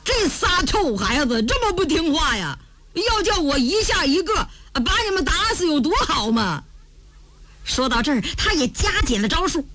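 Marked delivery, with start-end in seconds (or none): 0.0-6.6 mildly raised scolding voice; loud scolding. Acted. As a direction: scold them with a touch of impatience. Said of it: "高声骂道". (略微提高嗓门责骂)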